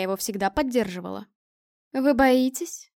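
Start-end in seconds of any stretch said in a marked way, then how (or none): 1.9-2.9 a mildly defiant question; challenging. A narrator's reading. Larisa daring the hesitant group, challenging. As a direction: throw it down as a light dare. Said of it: "спросила Лариса с вызовом".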